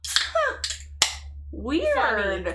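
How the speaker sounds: high "huh", then a drawn-out "weird"; mock puzzled cover-up; feigned innocence. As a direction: play dumb about a noise. Feigning ignorance of the crash.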